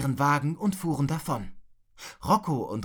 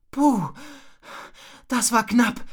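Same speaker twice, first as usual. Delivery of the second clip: acted puffing after a close call; loud, high puff of relief; exhausted gasp; 7 semitones higher, 4 dB louder than usual. A narrator's reading. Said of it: "keuchte Rocco erschöpft". (erschöpft keuchend, gespielt)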